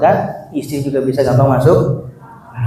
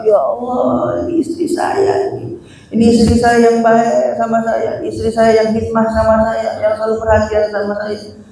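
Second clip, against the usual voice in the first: grief-stricken cry; 6 semitones higher than usual. Acted. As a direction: pour out grief over his wife's body. Husband recognizes his dead wife.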